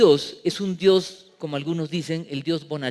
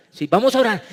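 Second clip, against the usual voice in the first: cheerful; 5 semitones higher, 5 dB louder, faster than usual. Acted. Acted cheerful chat before praying.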